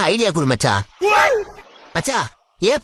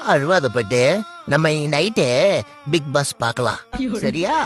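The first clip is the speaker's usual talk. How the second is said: low, gentle coaxing; soothing a child; 3 semitones lower than usual. Acted. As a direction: coax a crying little one to settle. Soothing a child after hitting.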